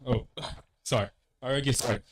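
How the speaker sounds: usual speaking voice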